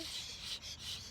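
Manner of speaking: soft unvoiced shushing; hushing shh. Mommy on the bus hushing, softly. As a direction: hush them like a mother. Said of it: "the mommy on the bus goes shh".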